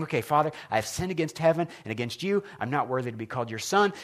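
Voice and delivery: quietly running lines to himself; rehearsing under his breath. Retold or imitated. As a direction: practice the apology softly, just for yourself. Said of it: "He's practicing".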